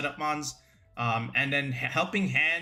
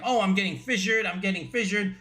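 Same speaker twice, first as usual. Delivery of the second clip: higher-pitched imitation of griping players; put-on grumble, pitched up; mock complaining; 4 semitones higher than usual. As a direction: whine it lightly, imitating everyone's complaint. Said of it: "Everyone's complaining about".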